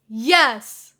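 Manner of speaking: loud, eager yes; boy crying out yes. A narrator's reading. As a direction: shout it with delight. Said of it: "Izuku cried".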